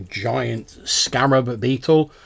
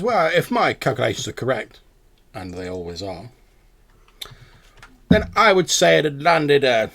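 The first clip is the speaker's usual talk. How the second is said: pedantic owl; 2 semitones higher, 4 dB louder than usual. Acted. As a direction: savour the term like an owl professor. Game master plays the owl.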